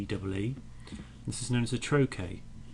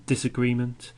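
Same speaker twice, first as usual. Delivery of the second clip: "disagreement" hit firmly and louder for the listener to hear; stressed word; 3 semitones higher, 6 dB louder than usual. Shown as a demonstration. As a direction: make "disagreement" stand out strongly. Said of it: "listen, listen".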